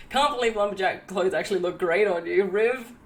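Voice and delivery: a hint of broad Australian Bogan; lightly voiced Australian Bogan. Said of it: "my Gavin voice is just the Australian Bogan voice".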